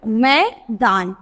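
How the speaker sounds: मैदान said very slowly, vowel stretched; slow demonstration. Shown as a demonstration. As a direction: draw out मैदान syllable by syllable. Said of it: "ए की sound आएगी".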